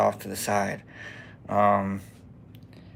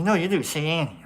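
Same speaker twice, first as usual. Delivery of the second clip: raised-pitch girlfriend impression, insisting; imitated insistent girlfriend; 6 semitones higher than usual. Girlfriend insisting he has an accent, imitated higher and insistent. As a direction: press the point in her higher voice. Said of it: "She's like".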